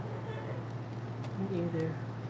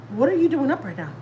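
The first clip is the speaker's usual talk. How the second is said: higher-pitched, mildly surprised question; surprised mom; 4 semitones higher than usual. Retold or imitated. Mom answering a late-night call from her daughter, surprised. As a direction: imitate a mother's mild surprise. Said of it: "She sounds so surprised".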